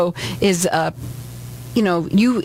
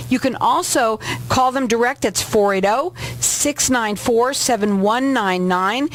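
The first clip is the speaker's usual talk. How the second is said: a radio host reading out phone numbers, a bit higher; radio announcer read; 3 semitones higher than usual. Acted. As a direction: read the numbers like an on-air promo.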